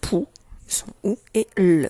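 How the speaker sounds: Pou and le said as separate sounds; sounding out syllables. Shown as a demonstration. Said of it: "Je fais tout chanter".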